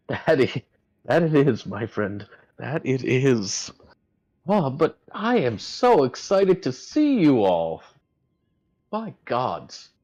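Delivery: high, slow and loud excited greeting; Edmund's voice. Acted. Edmund sitting beside Fisker, slow, high and delighted. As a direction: savour each word, thrilled to see them. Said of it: "he walks down and sits".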